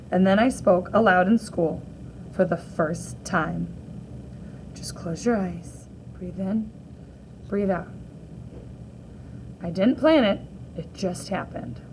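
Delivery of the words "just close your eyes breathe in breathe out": whisper. Acted. A nervous girl whispering to herself before her talk.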